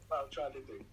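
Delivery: laughing hard while getting the words out. Real, not acted. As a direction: talk through high bursts of laughter. Joking about making friend cry.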